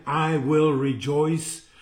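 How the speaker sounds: measured scripture reading; verse read aloud. Shown as a demonstration. Preacher reads scripture to listeners, measured reading.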